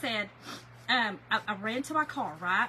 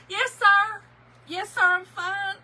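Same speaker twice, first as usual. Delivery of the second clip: high, teary yes sir; holding back tears, higher pitch; choked-up reassurance; tearful; 6 semitones higher, 6 dB louder, slower than usual. Retold or imitated. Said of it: "I just start crying".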